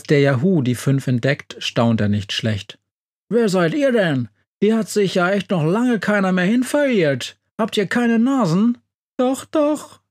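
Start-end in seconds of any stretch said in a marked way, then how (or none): 3.3-8.8 higher, wondering monster voice; a gentle monster amazed at visitors; puzzled monster. A narrator's reading. Yahoo greets strangers in his cave, higher and wondering. 9.2-10.0 much higher, whiny mouse voice; whining mouse. A narrator's reading. Mouse answers the smelly Yahoo, high and whining. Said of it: "jammert die Maus".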